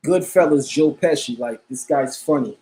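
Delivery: lightly put-on Italian accent; fake Italian accent. Streamer joking that a guest is funny, fake Italian accent. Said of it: "with my fake Italian voice".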